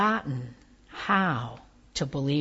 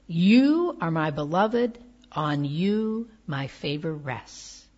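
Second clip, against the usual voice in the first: tender and forceful; 2 semitones lower than usual. Shown as a demonstration. Preacher telling Fred he is beloved, tender and slow. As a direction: speak it as love itself would. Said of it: "hear these words as spoken to you with all the tenderness and force that love can hold".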